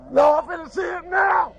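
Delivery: defiant shout. Real, not acted. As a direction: shout it, refusing to back down. Relative insists on seeing son.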